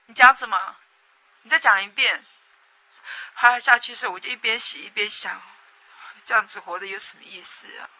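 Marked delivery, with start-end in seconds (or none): 0.1-2.2 retold brother's challenge, louder; a louder take of the big brother's menacing demand; mock angry brother. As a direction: throw the brother's threat back at him, louder. Brother angrily challenging after hitting.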